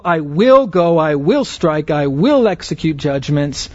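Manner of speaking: each "will" punched in a rhythmic list; stress on "will". Shown as a demonstration. Preacher recaps verse twelve's structure, stressing each "will". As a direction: hit "will" in every short clause. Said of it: "note this emphasis on the word will".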